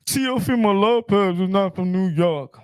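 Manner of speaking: insistent declaration; emphatic repeat. Shown as a demonstration. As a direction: hammer the point home. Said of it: "I'm hearing that".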